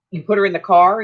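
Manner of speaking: disbelieving, rising on "car"; can't believe what you just heard; incredulous question. Retold or imitated. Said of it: "And I was like".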